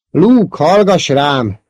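high, loud appeal; urgent call. A narrator's reading. Ben's voice calling Luke to listen, urgent. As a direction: call out high, pressing to be heard.

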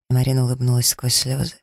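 plain reading voice

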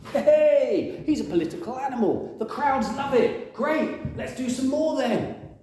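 high, laughing, careless tyrant voice; flippant Herod. Acted. Herod laughing off the execution, high and flippant. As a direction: laugh it off like a cynical king. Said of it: "What does Herod think about that?".

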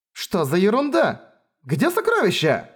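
high outraged question; indignant surprise. Acted. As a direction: cry out in disbelief. Siblings find the chests empty.

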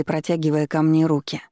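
ordinary delivery

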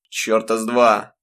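a father brusquely cutting off his wife; rough retort. Acted. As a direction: cut her off harshly. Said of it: "грубо оборвал её отец".

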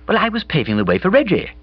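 Bobby's voice. A narrator's reading. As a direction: play Bobby, lively and breezy. Bobby explaining.

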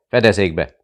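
loud cry of take cover; shouted warning. Acted. Someone in the library shouts to take cover, loud. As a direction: yell it as bombs go off. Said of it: "el is kiáltotta magát valaki".

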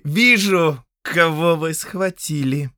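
put-on a young count snapping impatiently; curt interruption. Count cuts off his steward, curt and high. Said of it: "оборвал его Фредерик Вайкинен".

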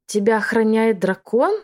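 a witch caught off guard by a dragon; mild stunned question; astonished. Acted. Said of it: "изумилась ведьма".

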